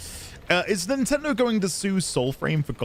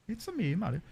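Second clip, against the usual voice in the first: put-on Italian accent; 3 semitones higher, 8 dB quieter, faster than usual. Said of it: "Italian-Swedish accent".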